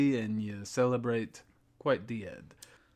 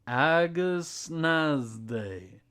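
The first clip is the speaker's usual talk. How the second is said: slow careful repeat; 2 semitones higher, much slower than usual. Acted. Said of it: "Say that again".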